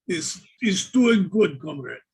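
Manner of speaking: a hint of a Russian accent; lightly put-on Russian accent. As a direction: answer like a Russian comrade. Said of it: "have we gone to Russia".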